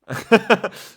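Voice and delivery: loud, high burst of laughter. Real, not acted. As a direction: laugh out loud at your own story. Laughs at own anecdote.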